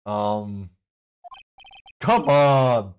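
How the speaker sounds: loud, hammy clown riddler. Acted. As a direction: ask it like a gleeful clown.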